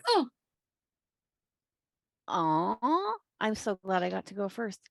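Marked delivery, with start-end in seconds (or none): none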